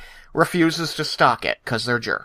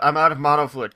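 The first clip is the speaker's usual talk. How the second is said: Ed's complaint; 4 semitones higher, faster than usual. Retold or imitated.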